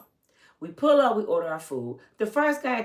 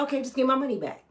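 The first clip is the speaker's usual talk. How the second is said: calm; 6 semitones higher, faster than usual. Retold or imitated. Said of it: "and I'm just as calm".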